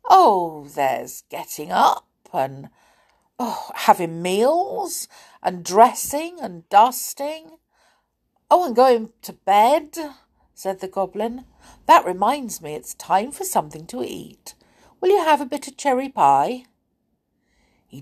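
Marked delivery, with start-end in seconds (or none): 0.1-10.0 lightly voiced muddled goblin, a little higher; a hint of a fussy goblin, puzzled. Goblin puzzles over his lost basket, lightly higher voice. 11.9-16.7 lightly voiced muddled goblin, a little higher; a hint of a fussy goblin, puzzled. Goblin puzzles over his lost basket, lightly higher voice.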